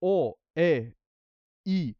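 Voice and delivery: slow, pure Spanish-style vowels o, e, i; each vowel o, e, i held clean and unbent. Shown as a demonstration. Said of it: "the words they say it".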